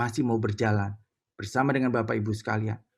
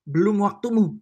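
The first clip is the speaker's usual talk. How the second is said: Holy Spirit; 8 semitones higher, 5 dB louder than usual. Retold or imitated. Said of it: "Jadi dia berbicara begini".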